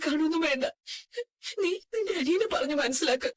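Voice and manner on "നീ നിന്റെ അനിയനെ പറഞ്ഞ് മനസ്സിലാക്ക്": crying request to her daughter; tearful plea. Acted. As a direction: beg her through tears. Mother pleads with daughter. (കരഞ്ഞുകൊണ്ടുള്ള അപേക്ഷ)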